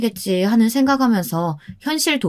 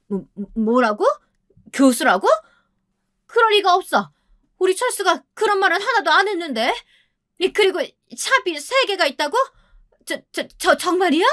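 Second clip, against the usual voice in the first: higher, stammering shock; stunned disbelief; 10 semitones higher than usual. Acted. Mother-in-law learning the bride is a professor, stunned stammer. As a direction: stumble over the words in disbelief.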